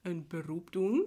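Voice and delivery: slow, deliberate, word by word; slow careful dictation. Shown as a demonstration. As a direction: spell it out slowly. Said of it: "ik zal vertellen wat het is".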